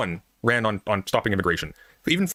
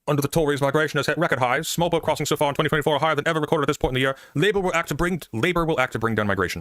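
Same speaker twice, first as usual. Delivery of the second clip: fake British accent; 4 semitones higher than usual. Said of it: "I'm gonna stop with the fake British accent".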